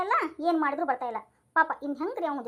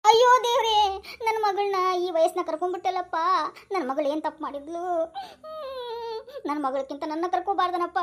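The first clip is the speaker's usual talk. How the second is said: crying. Acted. Father weeping over his daughter at the crime scene. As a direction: lament then weep. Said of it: "ಅಳದ್ ಸಾಕ್ರಿ".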